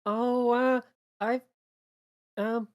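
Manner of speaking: high, halting character voice; unsure, high-pitched little figure; hesitant April. Acted. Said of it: "She looks down at this and says".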